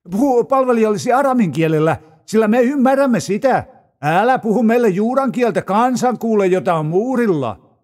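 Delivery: a touch of anxious courtiers; begging the envoy, understated; pleading officials. A narrator's reading.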